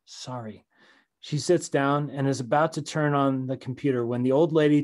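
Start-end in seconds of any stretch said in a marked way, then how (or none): 0.1-0.6 soft, sorry little whisper; apologetic whisper. Acted. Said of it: "She whispers an apologetic".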